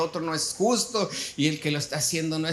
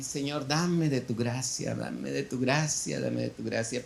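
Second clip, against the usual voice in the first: quiet prayer; 3 semitones lower, 4 dB quieter than usual. Retold or imitated. Praying for grace, annoyed.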